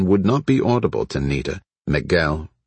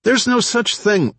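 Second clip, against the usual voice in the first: high-pitched protest in her ear; hissed disbelief. A narrator's reading. Fred protesting into Veda's ear, hissed disbelief. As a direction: object in a much higher pitch. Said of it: "Fred hissed in Veda's ear".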